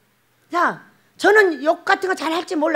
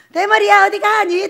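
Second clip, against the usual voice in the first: put-on kids taunting; 6 semitones higher, 6 dB louder than usual. Children taunting the bald prophet.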